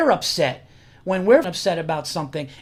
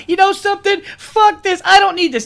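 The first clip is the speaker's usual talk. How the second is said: high, loud mock tantrum storming off; hammed-up imitation of an angry girlfriend; mocking upset woman; 11 semitones higher, 6 dB louder than usual. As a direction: play a girlfriend huffing out of the room. Mimicking woman storming off crying.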